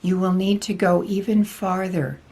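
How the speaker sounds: lightly voiced spiritual teacher, measured and deliberate; channelled Archangel Michael. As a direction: deliver a solemn channelled message with long pauses. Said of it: "Archangel Michael especially has been interested in coming through".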